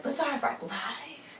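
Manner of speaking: high, soft, slowly stretched show slogan; drawn-out catchphrase. Retold or imitated. Host opening the live gig, drawn-out mock announcement. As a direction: stretch the show's name out high and light.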